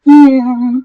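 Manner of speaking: small high squeaked yeah; shy squeak. Retold or imitated. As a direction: squeak it out, embarrassed. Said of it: "squeaked out a little".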